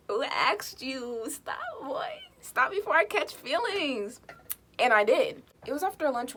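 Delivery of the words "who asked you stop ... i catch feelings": put-on playful brush-off, slow then squeaky on boy; mock sass. Mocking the classmate who stood up for her. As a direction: tease him like a diva. Mock sassy retort to Ted.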